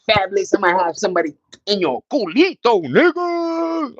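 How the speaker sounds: lightly put-on high voice; mock a singer. Streamer quoting a singer, lightly put-on high voice. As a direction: toss the line off like the singer. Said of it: "He like".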